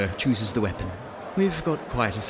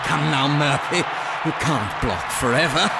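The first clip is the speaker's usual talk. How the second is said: taunting call; 2 semitones higher than usual. Acted. Opponent taunts mid-fight.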